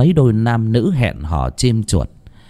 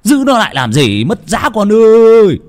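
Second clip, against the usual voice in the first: muttered curse; 8 semitones higher, 5 dB louder than usual. A narrator's reading. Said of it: "chửi thầm".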